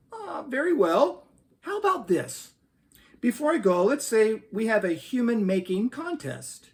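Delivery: a hint of an amused, indulgent deity; God speaking. Reading a joke aloud, mild mock God voice. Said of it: "God said".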